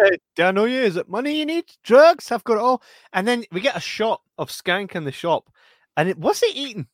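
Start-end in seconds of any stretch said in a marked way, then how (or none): 0.0-2.8 high panicky pleading voice; scared pleading. Retold or imitated. Host acting the gagged man begging his captor. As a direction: beg in a pitched-up panic.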